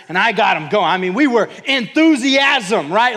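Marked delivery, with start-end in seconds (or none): none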